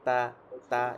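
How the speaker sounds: "তা" completely flat and light; flat, thin sound. Shown as a demonstration. Teacher showing how it should sound, flat "তা". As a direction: say "তা" with a flat open vowel. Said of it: "একদম flat".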